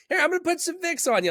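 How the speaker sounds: imitating mom. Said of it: "she's like".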